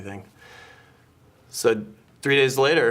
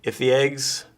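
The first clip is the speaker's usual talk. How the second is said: mock scripture reading. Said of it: "a quote from Psalms".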